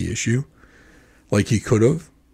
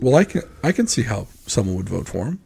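softer, measured, mild reply; retold calm remark; 5 dB quieter than usual. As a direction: gently concede the point, keeping it calm. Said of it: "and I said it very calmly".

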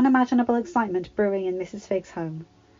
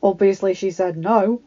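louder, slow, too forceful; forcibly; 6 dB louder than usual. A narrator's reading. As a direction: push it out harder than meant. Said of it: "said Ron, more forcibly than intended".

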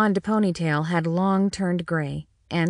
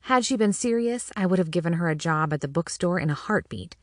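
usual speaking voice

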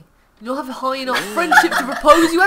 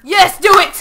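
loud, high-pitched cheer; excited egging on; 5 semitones higher, 8 dB louder than usual. Real, not acted. Player urging Lizzie to do it, excited shout. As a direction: goad with a raised voice.

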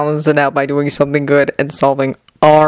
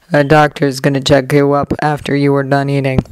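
flat; 4 semitones lower than usual. Acted. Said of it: "voice flat".

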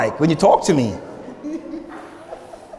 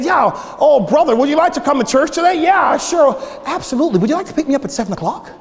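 higher, quick and eager politeness; lightly put-on proper, obliging voice; polite white-guy voice; 6 semitones higher, faster than usual. Pastor acting out a church invitation by phone, polite white-guy voice. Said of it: "if I sound like that".

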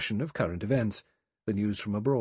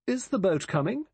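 much higher, louder sharp question; 11 semitones higher, 4 dB louder than usual. A narrator's reading. Emily Brent demands of the others whether the boat is coming, sharp and high. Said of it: "She said sharply".

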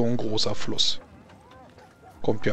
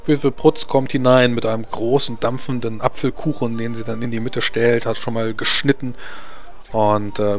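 game master narration; 2 semitones lower than usual. A narrator's reading. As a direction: set the scene for the players, unhurried. GM sets the scene.

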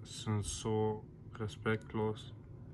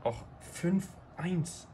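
excited; 3 semitones higher than usual. Real, not acted. Thrilled after great match.

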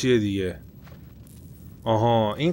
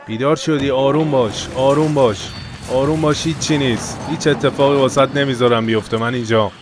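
put-on higher, louder urgent comforting of a scared child; calm the boy down while the plane shakes; father soothing son; 3 semitones higher, 6 dB louder than usual. Voicing father soothing his son.

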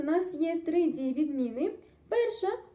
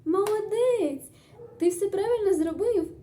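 teacher praise; 4 semitones higher than usual. Pretend. Teacher praises pupil after exercise.

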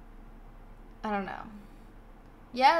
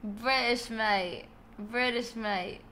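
casual British accent attempt; slower than usual. Shown as a demonstration. Streamer trying British on request, short British-accented phrases. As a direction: try out a British accent, mate. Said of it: "Do the British again".

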